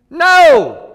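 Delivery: sharp high shouted no. Acted. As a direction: cut them off with a yell. Sudden shouted rebuttal.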